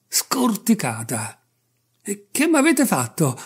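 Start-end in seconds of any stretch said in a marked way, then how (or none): 2.0-3.4 a raised, higher cry of dismay; alarmed customer yells at the barber; shouting in alarm. A narrator's reading. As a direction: shout it out, aghast.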